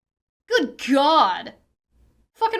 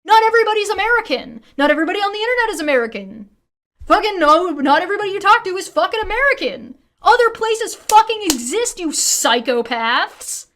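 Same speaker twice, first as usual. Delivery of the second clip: loud, fast, higher angry outburst; furious rant; 4 semitones higher, 4 dB louder than usual. Real, not acted. Streamer yelling at Americans in chat, fast furious rant. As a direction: fire it off, fed up.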